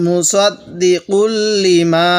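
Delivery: মুসাদ্দিকুল লিমা read slowly and joined; slow recitation. Shown as a demonstration. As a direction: recite it slowly, joining the syllables. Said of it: "তাহলে কিভাবে পড়ব". (ধীর তিলাওয়াত)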